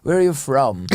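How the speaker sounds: middle-class posh accent, lightly put on. Posh drinker with wine asks where you are from, posh accent. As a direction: ask in a mildly mocking posh accent. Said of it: "in an accent going".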